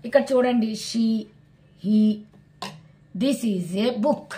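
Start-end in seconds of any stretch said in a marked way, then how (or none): 3.2-4.3 very slow, word by word; slow model sentence. Shown as a demonstration. Teacher reading an example slowly to students. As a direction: lay each word down for the class.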